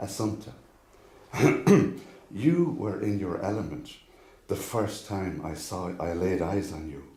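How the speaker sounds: measured poem recitation, long pauses between phrases; poem reading. Acted. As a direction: recite it line by line, each phrase starting firm and falling away. Reads own poem aloud.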